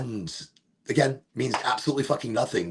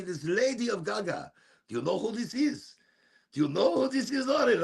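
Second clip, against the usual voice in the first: higher, excited mother on the phone; imitating mom; 5 semitones higher than usual. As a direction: play the excited mom calling her son. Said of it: "she calls me and she goes".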